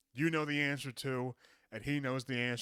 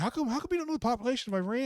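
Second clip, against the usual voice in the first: mock Tucker; 9 semitones higher, faster than usual. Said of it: "he's like".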